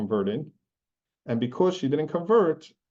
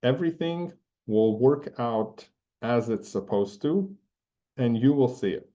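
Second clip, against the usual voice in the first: calm reassurance. Retold or imitated. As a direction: reassure him gently and unhurried. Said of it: "the Rebbe gives a look at me and he says".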